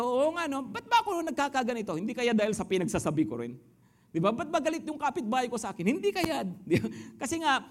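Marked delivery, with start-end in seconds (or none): 0.0-6.4 imitated inner thought. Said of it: "mag-iisip tayo".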